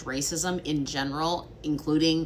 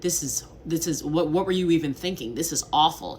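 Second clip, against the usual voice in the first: a mock blunt, louder rebuke of bad work; blunt French criticism; 4 dB louder than usual. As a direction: play the direct French colleague, exasperated. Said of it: "it is more common to say".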